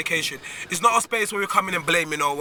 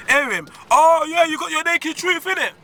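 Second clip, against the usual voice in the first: friend's voice; 10 semitones higher, 5 dB louder than usual. Retold or imitated. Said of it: "He says".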